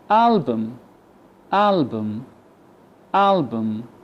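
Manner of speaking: "Album" with a weak uh in the second syllable; schwa for U. Shown as a demonstration. Teacher shows the replaced U, "Album" with schwa. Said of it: "So the U replaced with the schwa".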